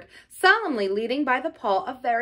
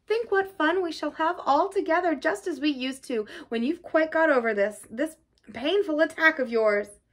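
higher-pitched, cheery coaxing; kindly; 6 semitones higher than usual. A narrator's reading. Rat promising Toad fun after recovery, kindly. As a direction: cheer him up gently. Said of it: "said the rat kindly".

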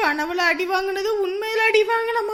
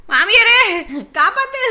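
calling out; 5 dB louder than usual. Acted. Calling mother-in-law for help.

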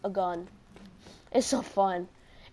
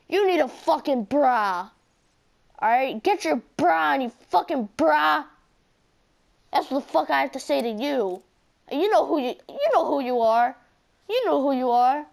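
louder, heated telling-off; angry rant; 3 dB louder than usual. Real, not acted. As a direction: scold the bullies straight to camera. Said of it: "I'm mad".

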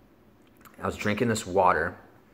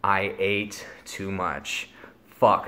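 dread; much slower than usual. Retold or imitated. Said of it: "those four dreadful words".

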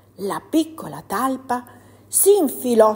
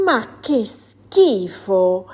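disgusted exclamation; 4 dB louder, much slower than usual. Acted. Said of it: "esclamò la piccola talpa".

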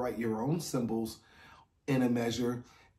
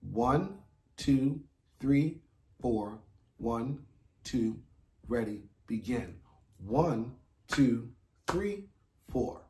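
steady count-in with a cue; 2 semitones lower, slower than usual. Shown as a demonstration. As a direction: count them in evenly. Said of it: "Wait for me to say ready".

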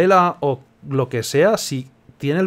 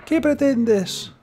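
high, very slow dramatic line; dramatic slow question; 11 semitones higher, much slower than usual. Acted. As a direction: stretch it out theatrically. Reading dialogue aloud.

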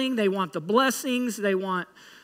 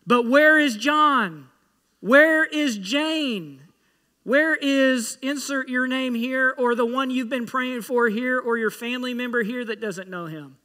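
Jesus asking; 3 semitones higher than usual. Pretend. Jesus imagined asking for the missing.

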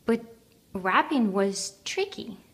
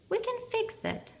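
gentle whisper; 14 semitones higher, 4 dB quieter, faster than usual. A narrator's reading. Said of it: "he whispered gently".

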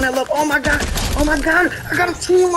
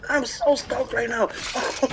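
strained, hoarse from yelling; 4 dB quieter than usual. Real, not acted. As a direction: voice giving out. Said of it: "I'm losing my voice".

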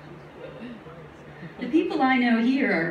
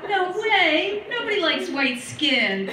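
surprised; 7 semitones higher than usual. Retold or imitated. Own retold disbelieving thought.

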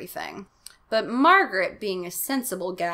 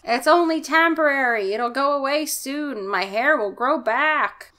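dad voice; 5 semitones higher, 5 dB louder than usual. Acted. Dad reassures, high voice.

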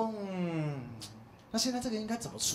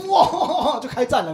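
laughing; 6 semitones higher, 12 dB louder, slower than usual. Real, not acted. Laughing at the absurd plot.

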